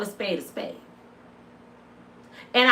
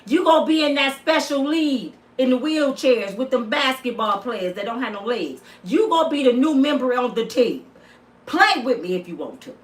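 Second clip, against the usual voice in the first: raised voice. Shown as a demonstration. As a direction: lift the voice to scare him off. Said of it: "lift my voice and say".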